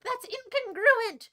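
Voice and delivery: slow, loud, high "incongruent"; indignant. Acted. Streamer protesting to chat, slow and indignant. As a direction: stretch "incongruent" out, offended.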